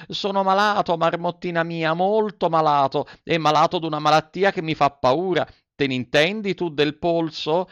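put-on a scared little wooden boy pleading for help; Pinocchio, frightened puppet. A narrator's reading. Pinocchio voiced high. (voce acuta e spaventata del burattino)

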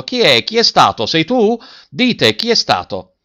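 loud, high angry questioning; guard interrogating the boys angrily; threatening demand. A narrator's reading. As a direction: demand who did it, threatening. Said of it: "minacciando e domandando".

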